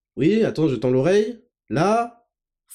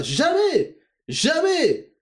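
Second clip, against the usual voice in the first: mock denial; 10 semitones higher, much slower than usual.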